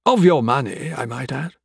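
lilting, slow, needling dialogue voice; taunting crime boss. Acted. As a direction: needle him at a leisurely pace.

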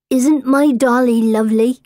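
put-on a touch of dreamy child; little girl. A narrator's reading. Small girl showing her doll to a stranger, childlike.

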